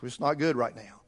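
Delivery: low, sour imitation of a man moaning about prices; grumbling complainer. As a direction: mutter like a weary pessimist at the store. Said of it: "And you know what you're gonna get?".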